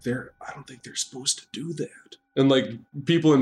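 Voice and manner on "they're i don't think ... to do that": much softer, worried murmur. Acted. Onlooker fretting to a neighbour, soft worried murmur. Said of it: "they're like".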